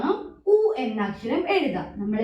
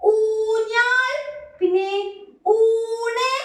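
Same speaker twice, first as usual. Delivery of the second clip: slow model words; 8 semitones higher, 3 dB louder, much slower than usual. Shown as a demonstration. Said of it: "teacher naming pictures".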